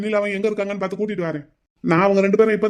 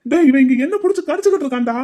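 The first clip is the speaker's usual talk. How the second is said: exasperated complaint; 5 semitones higher than usual. Acted. Friend complains on phone.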